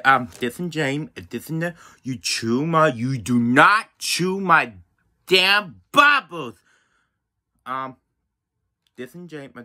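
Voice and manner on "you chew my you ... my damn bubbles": angry scolding. Real, not acted. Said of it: "I'm so angry".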